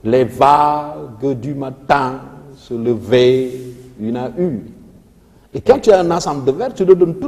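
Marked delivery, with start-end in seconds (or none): 0.0-4.6 very slow verse with stress on "va", "tin", "ver" and last "une"; measured chant-like beats on "vagues", "matin", "lever", "une"; tonic verse declamation. Shown as a demonstration. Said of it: "ma voix doit être tonique".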